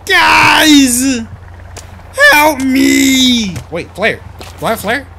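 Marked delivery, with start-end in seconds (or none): 0.1-3.6 loud shouts to distant teammates; calling out. Real, not acted. Lost player shouting to his teammates, loud calls for help. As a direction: yell to be found.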